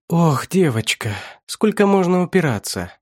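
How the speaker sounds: condescending, toying with a captive; taunting villain. A narrator's reading. Villain taunts his chained captive.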